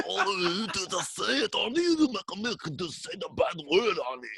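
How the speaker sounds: lightly voiced doting mom; coaxing mother voice. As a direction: coax him like a patient parent. Mock coaxing voice, higher.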